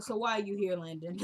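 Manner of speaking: mildly put-out question; understated, imitated displeasure; unwelcoming. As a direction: ask it with no welcome at all. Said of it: "he not even acting like he happy to see him".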